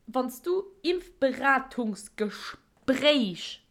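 Impfberatungsgespräch drawn out very slowly, leaning on Gespräch; slow the word down and land on Gespräch; stress on Gespräch. Shown as a demonstration. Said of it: "Betonung auf Gespräch".

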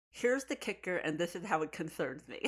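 lightly teasing impression ending in laughter; teasing imitation. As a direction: mimic a self-centred announcement, amused. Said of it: "Don't you love how she's like".

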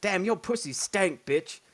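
quoting the hillbilly video, slow and hammed-up; hillbilly impression. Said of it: "he's like".

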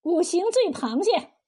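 name it with understated coldness; cold reply. Acted. Stall owner tells the nosy officer the dish's name, coolly. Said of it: "柳三娘冷言道".

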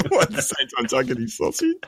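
high, laughing question through the giggles; can barely get it out for laughing; laughing while talking. Real, not acted. Laughing at the crude joke.

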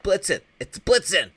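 high, loud mock outburst; imitated shouted correction. Correcting Ernest's botched reindeer name, mock yell. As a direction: yell the correction, playing exasperated.

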